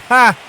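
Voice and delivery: quick loud burst of laughter; short laugh. Real, not acted. Player laughing at saying "thar", loud laugh. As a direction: laugh at your own slip.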